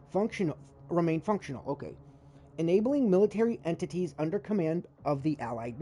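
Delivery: steady read-through of on-screen text; reading game text aloud to stream; reading lore aloud. Acted. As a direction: read the log like a briefing.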